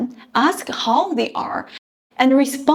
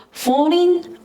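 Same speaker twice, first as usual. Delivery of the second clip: "falling" said with the voice dropping in pitch; falling tone demo; 6 semitones higher than usual. Shown as a demonstration. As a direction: let the pitch fall on "falling". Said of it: "originally third tone".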